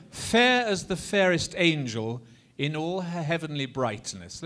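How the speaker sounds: measured declaimed line for repeating; speech-rhythm model line. Shown as a demonstration. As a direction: recite it for a group to echo. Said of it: "just say after me".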